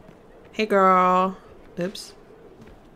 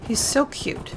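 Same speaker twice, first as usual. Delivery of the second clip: gushing; 5 semitones higher than usual. Real, not acted. Gushing over cute mount.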